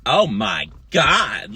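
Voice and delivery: slow, drawn-out mock gasp of shock. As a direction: play her clutching her pearls. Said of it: "she was acting like".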